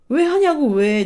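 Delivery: a burst of angry disbelief; exasperated outburst. Retold or imitated. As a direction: throw the question out in frustration. Venting at spouse's behavior.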